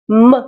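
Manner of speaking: hummed "muh" for M; M as a sound. Shown as a demonstration. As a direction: say M as in mother, not its name. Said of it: "as in mother".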